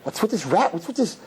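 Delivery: normal talking voice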